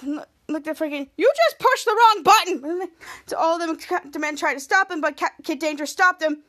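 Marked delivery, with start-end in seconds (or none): 1.2-2.9 slow, high, loud mock fury; hammed-up angry outburst, stretched out; pissed off. Captain Man facing Frankini after an insult, acted anger. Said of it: "who's pissed off".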